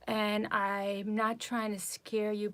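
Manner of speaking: slow, careful imitation of a worried doctor; gently concerned, like family. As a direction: break it gently, drawing the words out. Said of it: "like concerned".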